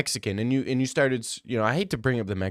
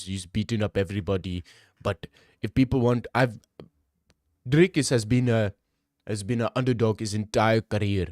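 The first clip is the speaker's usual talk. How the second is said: put-on lightly done South African accent; slipping into a mock South African accent. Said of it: "I'm getting too Indian now with the South African accent".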